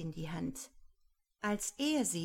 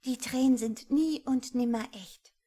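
higher, louder scornful scoff; shrill-free, loud mocking laugh-voice; 6 semitones higher, 7 dB louder than usual. A narrator's reading. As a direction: sneer at the fake tears. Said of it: "Rosemarie lachte spöttisch".

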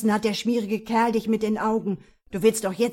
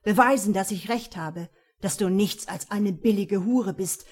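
angry; 5 dB louder than usual. Acted. Jealous man insults her.

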